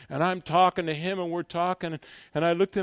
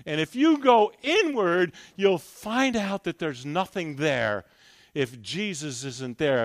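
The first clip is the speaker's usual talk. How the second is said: ordinary delivery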